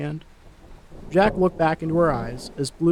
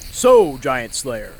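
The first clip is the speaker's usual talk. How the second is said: mild boom; 4 semitones lower, 4 dB louder, much slower than usual. Acted. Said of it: "the man boomed".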